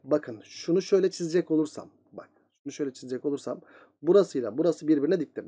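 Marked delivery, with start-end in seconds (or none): 2.1-3.6 softer and fast, under the breath; repeating himself quietly at the board; quick quiet repeat. Real, not acted. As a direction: mutter it again to yourself while drawing. Teacher repeats line while drawing.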